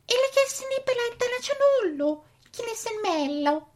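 mock Italian gibberish; hammy pretend Italian accent; fake Italian. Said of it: "it's actually gobbledygook".

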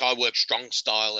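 stubborn wrestler. Retold or imitated. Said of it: "he's like".

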